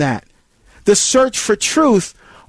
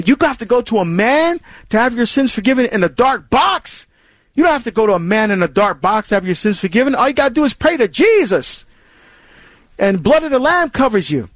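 hostile challenge; 3 semitones higher than usual. Retold or imitated. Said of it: "those questions may be hostile".

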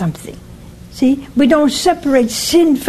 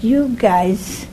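mock exasperated scolding. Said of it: "I would have said".

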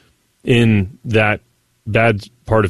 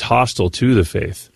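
ordinary talk

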